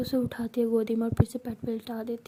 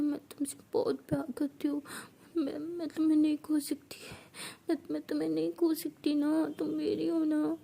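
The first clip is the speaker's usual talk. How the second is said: put-on higher, crying drunk confession; tearful pleading; 4 semitones higher than usual. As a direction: beg her not to leave, through tears. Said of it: "वो रोने लगती है". (रोती हुई, नशे में गिड़गिड़ाती)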